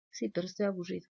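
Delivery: voz de niño más baja y cansina; niño terco. Retold or imitated. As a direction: imita al niño que insiste aburrido. Hijo insiste que está aburrido. (niño terco y desganado)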